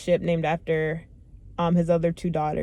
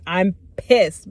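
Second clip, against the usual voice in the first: pissed off; 6 dB louder than usual. Real, not acted.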